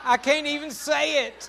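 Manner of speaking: breaking into laughter mid-line; real laugh, can hardly get it out; laughing too hard to say it. Real, not acted. Laughing at his own story.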